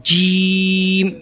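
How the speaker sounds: جیم very slow, with a hard ج; hard jeem. Shown as a demonstration. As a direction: give جیم a firm, strong start. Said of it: "جیم کی آواز میں سختی ہوتی ہے". (سختی کے ساتھ جیم)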